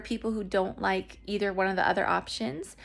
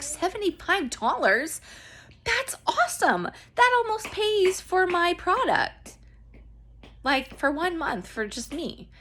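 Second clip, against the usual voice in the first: excited; 9 semitones higher than usual. Retold or imitated. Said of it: "And I was like".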